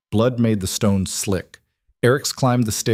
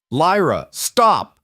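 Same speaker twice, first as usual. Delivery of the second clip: desperate yell; 8 semitones higher, much slower than usual. Acted. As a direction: shout her name to break through. Eric yells at rampaging Lyra.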